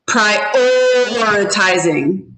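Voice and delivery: "prioritizing" slow, OR held very long; drawn-out O. Shown as a demonstration. Teacher asks first or second vowel, "prioritizing" with long-held OR. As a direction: stretch the O in "prioritizing". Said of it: "does this O sound more like".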